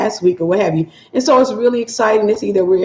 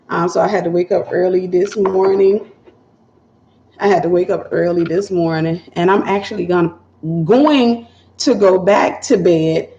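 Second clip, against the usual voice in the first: sleepy voice. Real, not acted. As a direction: talk like you just rolled out of bed. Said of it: "I still actually have my sleepy voice on".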